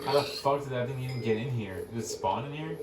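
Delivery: startled. Real, not acted. Reacting to a mob in base.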